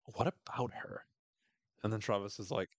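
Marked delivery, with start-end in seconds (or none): 0.1-1.1 a slow, lightly cold retort; hint of a cutting reply; mock brutal. Jackie coldly dismissing Travis, lightly imitated brutal tone. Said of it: "rather brutally".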